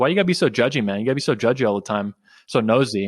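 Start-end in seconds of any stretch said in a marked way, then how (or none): none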